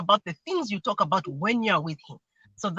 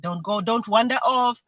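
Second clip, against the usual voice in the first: proper, measured instruction; 4 semitones higher than usual. Shown as a demonstration. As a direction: demonstrate telling a child properly. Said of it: "next time I say it properly".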